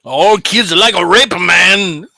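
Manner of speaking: put-on Japanese accent. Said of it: "an extremely racist Japanese stereotype".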